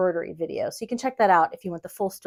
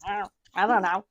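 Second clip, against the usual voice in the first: flustered Muppet. Retold or imitated. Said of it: "and I'm like, a Muppet".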